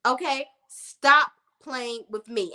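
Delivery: "Stop playing with me" drawn out slowly, every word spaced; slow emphatic warning. Shown as a demonstration. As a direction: lay each word down slowly and firmly.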